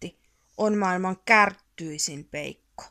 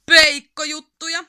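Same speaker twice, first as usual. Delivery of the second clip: higher, loud gleeful shout; excited exclamation; 6 semitones higher, 10 dB louder than usual. A narrator's reading. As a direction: cheer out the idea. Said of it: "huudahti Yrmy". (innostunut huudahdus)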